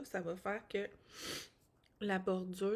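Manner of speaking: voix enrhumée, nez qui coule; en reniflant. Real, not acted. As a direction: parler en reniflant après s'être mouchée. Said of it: "je renifle". (en reniflant)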